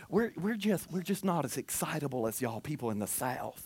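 low, hushed Northerner impression; underplay it as a reserved Northern churchgoer; mock Northern accent. Pastor mimics Northerners explaining they aren't excitable, soft Northern accent. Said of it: "that's not a northern voice".

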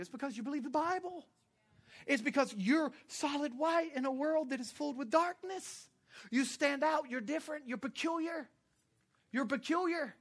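high-pitched, emphatic sermon delivery; impassioned preaching. Real, not acted.

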